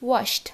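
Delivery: ওয়াশড with a crisp T at the end. Shown as a demonstration. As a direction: say ওয়াশড as "wosht". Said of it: "কীরকমভাবে pronounce হবে".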